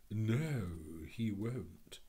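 lightly voiced grand bird; assured, measured reassurance; soft-voiced Phoenix. A narrator's reading. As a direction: clever old bird's calm correction. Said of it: "said the soft voice of the clever Phoenix".

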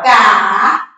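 Ca held on its own, low; separated syllable. Shown as a demonstration. Teacher separating the word, Ca said as an isolated syllable. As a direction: draw out a lone low Ca. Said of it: "pra separar".

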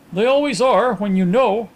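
high-pitched musing to oneself; soliloquizing. A narrator's reading. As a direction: think aloud, lightly acted. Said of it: "soliloquized the other".

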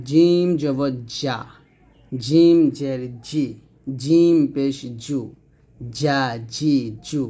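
slow drill with a hard, firm জ; firm, strong jim. Shown as a demonstration. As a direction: press mid-tongue to the palate for a strong জ in জিম. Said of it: "শক্ত এবং মজবুত আওয়াজে জিম".

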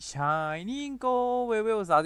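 high, slow, stretched anime cry; JoJo-style cry. Acted. Gamer hailing another shiny, drawn-out high JoJo cry. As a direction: hold the words long and high, hammed up. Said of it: "แบบโจโจ้ไง".

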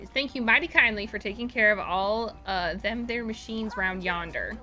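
folksy attempt at a Southern accent. Streamer reading a game character's thanks, mock Southern accent. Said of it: "I can't do a southern accent".

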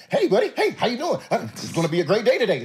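squeaky high mock cheer, rattled off fast; Pete's chipper greeting. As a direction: ham up a relentlessly upbeat coach at dawn. Imitating Pete's early-morning greeting.

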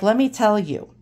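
lightly imitated old Brooklyn straight talker; Ronnie's New York accent. Dad's friend confides a warning, light New York accent. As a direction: put on a touch of old-timey New York. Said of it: "with his, you know, total New York accent".

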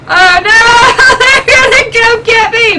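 panicked but amused; excited panic. Real, not acted. Caught in game.

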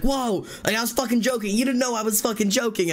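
high-pitched imitation of an indignant guy; mock-offended backpedalling; defensive protest. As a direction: back off while insisting it was harmless. Retold man protesting he was joking.

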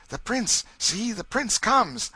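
high, slow hushed exclamation; excited crowd. Acted. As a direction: announce the prince with awe. Crowd murmurs at prince's arrival.

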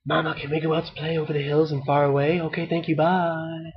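fast, hushed sneaky whisper. A narrator's reading. Ducklings to their sleeping mother, whispered. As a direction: rush it under your breath so she stays asleep. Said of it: "They whispered to her".

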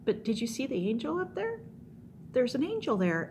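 mildly puzzled animal character; talking donkey. Acted. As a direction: point it out with rising pitch. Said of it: "and the donkey says".

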